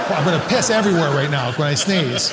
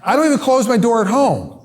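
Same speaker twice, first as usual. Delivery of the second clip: incredulous rant; 6 semitones higher than usual. Real, not acted.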